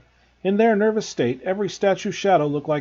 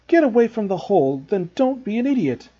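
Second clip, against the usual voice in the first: angry; 6 semitones higher, 5 dB louder than usual. A narrator's reading. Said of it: "Ron exploded".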